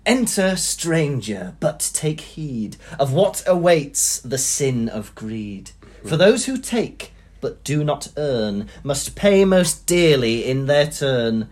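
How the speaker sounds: slow, portentous verse reading; poem recitation. Acted. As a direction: intone it as a solemn warning to thieves. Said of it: "I'm gonna read to you, uh, the poem".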